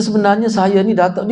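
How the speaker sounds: lightly mimicked newsreader delivery; a touch of news-bulletin cadence; newsreader intonation. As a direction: imitate someone chatting as if reading the news. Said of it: "dia kecek sebab baca berita".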